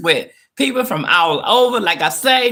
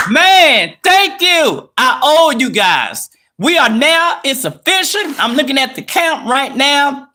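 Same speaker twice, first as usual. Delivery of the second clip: excited thanks; 5 semitones higher than usual. Real, not acted. Celebrating milestone with viewers.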